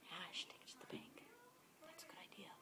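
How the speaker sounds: very soft, unbothered near-whisper; hushed, underplayed agreement; not freaking out. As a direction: imitate a man quietly going along with it. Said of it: "this guy didn't freak out at all".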